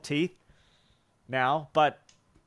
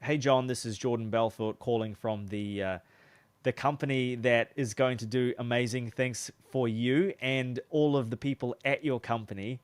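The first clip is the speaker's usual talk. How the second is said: smiling voice; 3 semitones lower than usual. Shown as a demonstration. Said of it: "hear in my voice when I start smiling".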